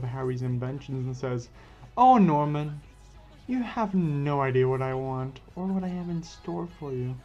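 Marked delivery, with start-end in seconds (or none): 2.0-7.1 a hint of a scheming mad scientist; gloating villain. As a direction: purr the threat with mild menace. Villain Octavius gloats at Norman.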